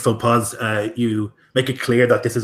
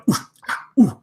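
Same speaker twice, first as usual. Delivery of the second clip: guttural orc murmurs; 9 semitones higher than usual. Acted. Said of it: "short, guttural sort of language".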